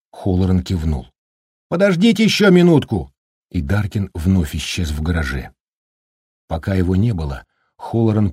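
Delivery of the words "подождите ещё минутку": почти крик. Acted. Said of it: "приходилось почти кричать".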